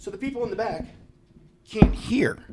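thin high whispered voice demoing the inaudible speech; imitating the faint mic. Shown as a demonstration. To show the podcast how faint the speech was, thin whisper. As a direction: mimic a speech you can barely hear. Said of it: "This is gonna sound terrible on the podcast".

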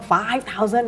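"five thousand" stressed with excitement; excited emphasis. Shown as a demonstration. Teacher shows how to emphasize the number, excited stress on "five thousand". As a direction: lean on "five thousand" as the startling figure. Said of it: "แบบว่าตื่นเต้นขึ้นมา".

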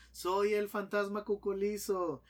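fantasma más agudo y lento, creciendo en fuerza; voz de fantasma. Acted. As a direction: anuncia su amenaza como un fantasma burlón. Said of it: "vuelve a salir el fantasma y dice". (el fantasma Cuculizo amenaza al del piso, con voz aguda y creciente)

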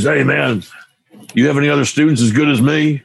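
lightly imitating a cocky young student; cocky kid. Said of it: "this little cocky attitude".

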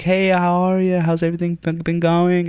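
high, bright mock-cheery manager; imitating the cheery boss; fake-friendly boss. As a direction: chirp it like a sugary boss. Boss's friendly email voiced.

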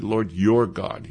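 "your" leaned on, slow; "your" said slow and marked; stress on your. Shown as a demonstration. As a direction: slowly point out "your" in "Lord your God". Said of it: "Notice how he said".

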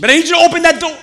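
put-on high, loud childish whine; whiny impatient believer. Believer complaining to God, high and whiny. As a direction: beg like a kid who can't wait.

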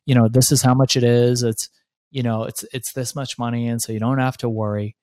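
lightly voiced advisers soothing him; calming reassurance. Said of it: "they calmed me down".

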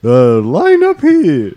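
high, slow, hammed-up fake British accent. Contest host calling people up, in a hammed-up fake British accent. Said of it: "doing a fake British accent the whole time".

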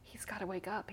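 hushed pleading; softly begging him to wake up; quiet tearful plea; retold plea. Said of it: "I kept crying".

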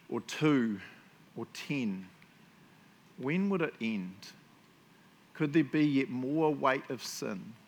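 drawn-out, measured reading, pausing between phrases; slow reading. Real, not acted. Preacher reading of Jesus' suffering on the cross, slow and weighty. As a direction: read slowly, letting each phrase land. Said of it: "I'll read it quite slowly".

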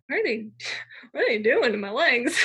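half-laughing mock alarm; breaking into laughs while asking; laughing disbelief. Panicked retelling, laughs mid-line.

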